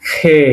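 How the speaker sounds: "খে" starting like Bengali খ; "খে" as a model letter name; Russian letter demo. Shown as a demonstration. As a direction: say "খে" with a breath of খ and held e. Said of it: "উচ্চারণ হবে খ এর মতো".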